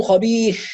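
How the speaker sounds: خبيث with air escaping at the end; airy wrong ra. Shown as a demonstration. Teacher showing student the airy mistake. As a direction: let breath leak after the final sound of خبيث. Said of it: "هذا الهواء خطأ".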